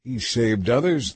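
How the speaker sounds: slow sneering scoff. Acted. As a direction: sneer at him. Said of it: "they scoffed".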